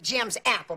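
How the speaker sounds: Jim's apple, a flat English take on je m'appelle; mispronounced French. Retold or imitated. Aunt mimics a boy mangling French, flat English. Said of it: "he would always pronounce it".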